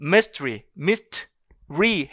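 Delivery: "mystery" said as mys-tree, two syllables; schwa deleted. Shown as a demonstration. Teacher repeats for students, "mystery" as mys-tree with schwa removed. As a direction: leave out the middle vowel of "mystery". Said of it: "슈아 사운드를 아예 제거해버리는".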